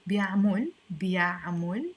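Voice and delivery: بيعمل repeated with -mol ending; rounded last vowel in بيعمل. Shown as a demonstration. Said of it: "with the O, not L".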